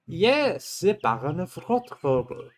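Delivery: slow, pompous noble voice; stiff baron. Acted. Player voicing the baron, slow and pompous. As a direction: draw the title out grandly. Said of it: "He's talking in black letter".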